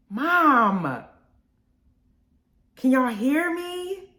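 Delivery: normal talking voice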